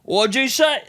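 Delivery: mock British accent. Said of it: "He'd be like".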